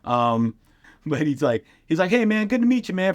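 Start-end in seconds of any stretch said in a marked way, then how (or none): 2.1-3.2 imitating Freeze. Freeze greeting, voiced high.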